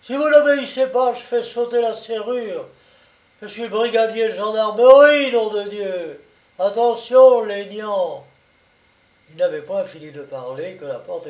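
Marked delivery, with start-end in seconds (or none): 0.0-8.3 high, fast, very loud threats; furious yell. A narrator's reading. Brigadier threatening to blow the lock, yelling. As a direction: bellow with a lawman's bluster. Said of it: "il hurla".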